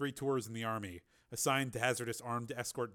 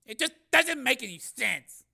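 high, louder, helpless bewilderment; hopelessly baffled; 12 semitones higher, 8 dB louder than usual. A narrator's reading. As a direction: give up trying to explain it. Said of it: "shook his head hopelessly".

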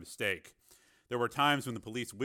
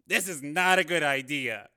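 raised, louder cameraman's protest; nervous objection; 5 semitones higher, 7 dB louder than usual. A narrator's reading. Cameraman warns reporter beside him in the car, uneasy objection.

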